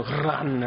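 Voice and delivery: "run" with an attempted Scottish rolled R. Preacher failing to copy a Scottish preacher, rolled R on "run". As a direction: try trilling the R at the start of "run". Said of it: "he rolled his R like a Scottish man".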